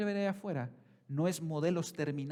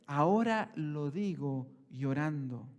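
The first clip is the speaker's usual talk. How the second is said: slow, lower, a hint of weeping; tearful Paul; 4 semitones lower, slower than usual. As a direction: let it sink, mildly tearful. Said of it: "Pablo dice".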